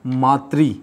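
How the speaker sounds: मातृ slowly sounded with a final "ree"; teacher sounding out मातृ with "ree" at the end; pronunciation demo. Shown as a demonstration. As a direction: say मातृ as "maa-tree", drawn out. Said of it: "लेकिन उच्चारण हमेशा".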